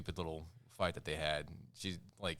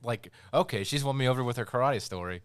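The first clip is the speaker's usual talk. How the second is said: louder, higher disbelieving rant; incredulous rant; 7 semitones higher, 8 dB louder than usual. Retold or imitated. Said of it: "I'm like".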